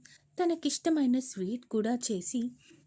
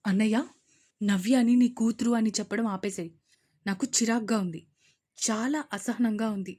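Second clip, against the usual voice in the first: irritated sister, louder; 2 semitones lower, 4 dB louder than usual. Acted. Sister complaining to brother, irritated. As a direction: complain with annoyance.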